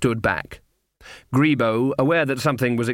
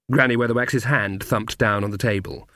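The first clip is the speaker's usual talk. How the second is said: usual speaking voice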